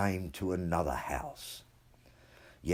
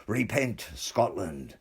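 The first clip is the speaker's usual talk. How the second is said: ominous proclamation; 5 dB louder than usual. Acted. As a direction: declaim it like a curse written in blood. Ominous letter written in blood.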